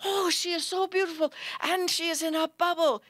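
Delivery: high, dreamy and adoring; smitten guest. Retold or imitated. Guest in love with Glinda.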